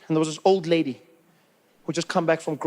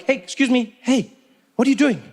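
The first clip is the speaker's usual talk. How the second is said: mock stern telling-off; 5 semitones higher, 4 dB louder than usual. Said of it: "I turn and I'm like".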